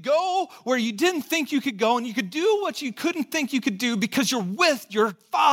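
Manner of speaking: building, fervent call to the congregation; rising preaching. Real, not acted. Pastor urging congregation toward courage, fervent and rising. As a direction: lift it to a ringing climax.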